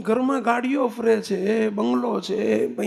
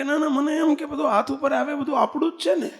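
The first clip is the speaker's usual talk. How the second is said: son's naive excuse; 6 semitones higher than usual. Retold or imitated. Son's excuse voiced in story.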